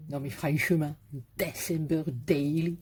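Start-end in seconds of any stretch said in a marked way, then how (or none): 1.4-2.8 mock-proud replay of French-accented English; playfully put-on English accent, French-tinged. Shown as a demonstration. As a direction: show off your Marseille-accented English. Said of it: "comme j'ai dit ça".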